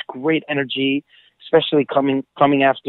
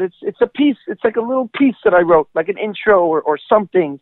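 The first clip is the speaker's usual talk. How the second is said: bashful self; 5 semitones higher than usual. Retold or imitated. Retelling his modest reply.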